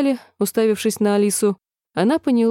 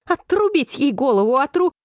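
rising furious yell, higher; shrieking royal command to chop off a head; queen's shout; 6 semitones higher than usual. A narrator's reading. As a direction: scream the order to behead her. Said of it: "крикнула".

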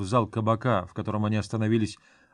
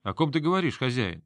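feigned surprise; 2 semitones higher than usual. Acted. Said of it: "деланно удивился Грон".

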